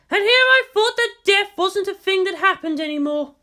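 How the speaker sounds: a bitter laugh under the words; bitter chuckle. A narrator's reading. Misato mocks the soldier with bitter amusement. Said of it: "with a bitter little chuckle".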